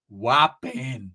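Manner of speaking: low, stretched "Whopping"; drawn-out catchphrase. Retold or imitated. Ricky rising from the water, low drawn-out "Whopping". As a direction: draw out both halves of "Whopping". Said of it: "the whopping voice".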